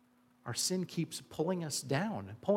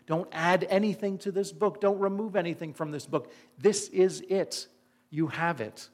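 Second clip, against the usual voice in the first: forceful scripture quote; 5 semitones higher, 3 dB louder than usual. Acted. Quoting Revelation with force.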